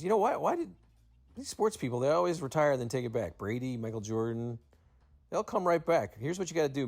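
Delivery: lively imitation of a radio host's challenge; animated retold quote. Retold Howard questioning Mad Dog.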